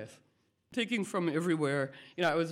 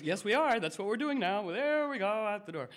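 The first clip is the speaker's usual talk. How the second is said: upbeat coaxing; 5 semitones higher than usual. Pretend. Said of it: "come on, we're".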